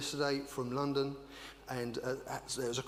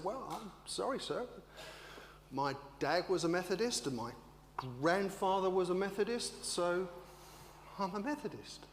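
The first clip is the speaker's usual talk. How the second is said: meek grandmother; 5 semitones higher than usual. Retold or imitated. Grandmother Edna explaining herself meekly to the preacher. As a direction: apologize gently. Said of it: "Edna just said".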